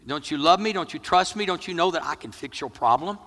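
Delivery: high-pitched, put-on exasperation; mock impatient scolding. Preacher imagining himself with Jesus's power to a crying woman, mock impatient. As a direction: fire off mock-reproachful questions. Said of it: "if I had the power of Jesus".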